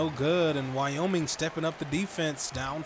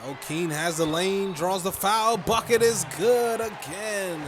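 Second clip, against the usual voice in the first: excited; 5 semitones higher, 6 dB louder than usual. Real, not acted. Call building to made basket.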